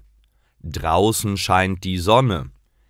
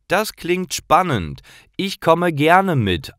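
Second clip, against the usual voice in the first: put-on higher, keen young voice; eager boy Paul; 10 semitones higher than usual. Paul accepts Karl's skateboard invite, higher eager boy. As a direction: jump at the invitation.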